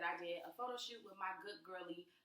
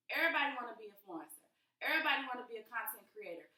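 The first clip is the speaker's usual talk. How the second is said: fired-up rant; 2 semitones higher, 5 dB louder, faster than usual. Real, not acted. Ranting about content creators.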